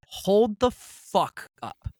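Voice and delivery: slow, high, disbelieving outrage; high, slow indignant halt; angry. Retold or imitated. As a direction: stop them dead with mock fury. Retold clash with fertility clinic.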